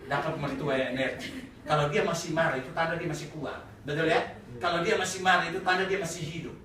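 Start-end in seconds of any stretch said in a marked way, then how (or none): 0.1-1.5 laughing mock gratitude.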